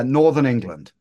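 normal talking voice

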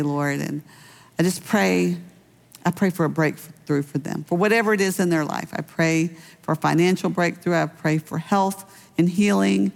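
closing prayer. Acted. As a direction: pray over the congregation gently. Pastor leads closing prayer.

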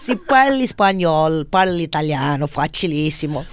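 performed Italian phrasing; Italian accent. Shown as a demonstration. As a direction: show off your Italian accent. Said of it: "Do you wanna do that one more time?".

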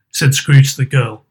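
plain reading voice

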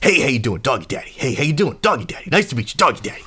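high, repetitive greeter voice; Doggy Daddy. Acted. Ratty-looking dude introduces himself to all, high-pitched greeting. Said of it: "and he's like".

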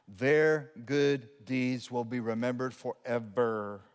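low, slow scripture reading; slow solemn reading. Real, not acted. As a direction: draw each word out with weight. Reads the verse with solemn weight.

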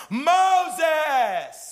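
loud, high, drawn-out shout of the name; intense call. Shown as a demonstration. God calling Moses with intensity, loud high shout. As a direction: cry out Moses with urgency. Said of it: "It'd be like".

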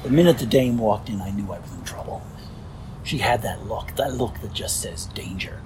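lightly voiced hardboiled narrator; a hint of a 1930s gangster novel; noir detective. Shown as a demonstration. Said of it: "the old Chandlers ... nineteen thirties gangster novel".

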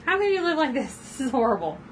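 appalled neat freak. Retold or imitated. Co-host joins the pen rant.

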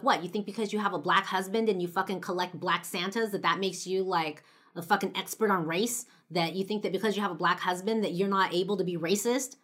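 heated, indignant imagined comeback; pissed off. Retold or imitated. Guest wants to tear into friend's mom, pissed off. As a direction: tear into her with a rapid-fire rhetorical challenge. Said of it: "I was so pissed off".

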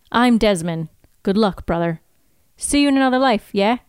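lightly put-on Scottish accent. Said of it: "can we talk about my accent".

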